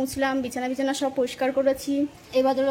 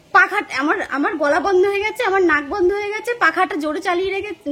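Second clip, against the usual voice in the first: higher, louder mock of a husband complaining he's all blocked up; imitating sleepy husband; 5 semitones higher, 4 dB louder than usual. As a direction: play his groggy whine about a blocked throat and nose. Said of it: "ভুলভাল বকছে". (ঘুমের ঘোরে স্বামীর নালিশের নকল, উঁচু গলায়)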